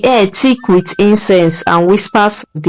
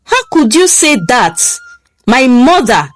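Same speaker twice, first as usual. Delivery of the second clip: rising, higher pitched indignation; confused anger; 3 semitones higher than usual. Acted. Husband confronting his wife about her accusation, indignant and raised. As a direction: push back hard, confused and hurt. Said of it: "his voice a mixture of confusion and anger".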